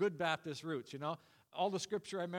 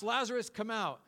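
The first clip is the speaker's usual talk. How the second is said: raised, higher call, short of a full shout; retold shout; 4 semitones higher, 5 dB louder than usual. Jesus calling a dead man from the tomb, mildly raised shout. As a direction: call out firmly, a mild mock shout. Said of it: "So he shouts".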